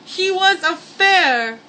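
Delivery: high, breathless laughing through the words; giggling helplessly while trying to read on; cracking up. Real, not acted. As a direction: lose it laughing mid-read. Cracks up reading own story.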